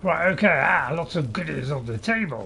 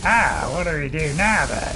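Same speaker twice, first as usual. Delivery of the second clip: slow, louder character voice; player character voice; 6 dB louder than usual. Acted. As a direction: voice the player hero, drawn out. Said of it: "doing my character voice, which is like this".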